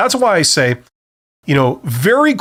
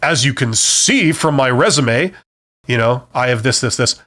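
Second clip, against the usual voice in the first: condescending; 3 semitones lower than usual. Shown as a demonstration. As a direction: talk down to the interviewer. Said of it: "say it in kind of a condescending way".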